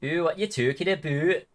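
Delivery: playful Canadian accent caricature; Canadian accent, affectionately parodied; mock Canadian accent. Shown as a demonstration. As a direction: put on a British-tinged Canadian accent. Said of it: "I love the Canadian accent".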